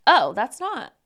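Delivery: loud startled oh, then deflating; hammed-up disappointed mother; mock dismayed mom. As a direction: catch yourself, shocked at the ring. Mom reacting to wrong ring.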